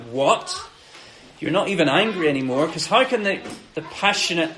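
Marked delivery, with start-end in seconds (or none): 0.0-2.7 fast, disbelieving what?; stunned, half-laughing disbelief; incredulous surprise. Retold or imitated. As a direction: react as if you can't believe it. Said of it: "we would be like".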